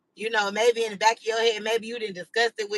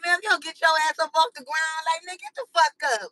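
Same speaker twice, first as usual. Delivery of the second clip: higher-pitched exasperated scolding; mock scolding; 6 semitones higher than usual. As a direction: tell him off in disbelief, half-joking. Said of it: "you be like".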